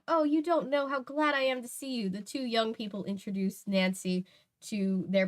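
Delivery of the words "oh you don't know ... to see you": relieved. Acted. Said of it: "she cried out".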